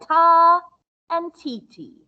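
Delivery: "Ta" loud then "T T" as quick beats; spoken rhythm pattern; rhythm demo. Shown as a demonstration. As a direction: contrast one beat with two. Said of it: "it sounds like this".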